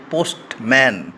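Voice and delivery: পোস্টম্যান in two separate beats, post, then man; teacher separating পোস্ট and ম্যান; split into syllables. Shown as a demonstration. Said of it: "দুবার উচ্চারণ কেটে কেটে করতে পারি".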